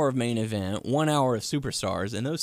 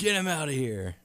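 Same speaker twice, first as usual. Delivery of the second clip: Triple H; 3 semitones higher than usual. Retold or imitated. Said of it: "Triple H says".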